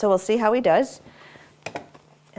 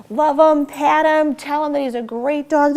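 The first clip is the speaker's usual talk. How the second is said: enthusiastic; 7 semitones higher, 6 dB louder than usual. Shown as a demonstration. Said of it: "make a big deal".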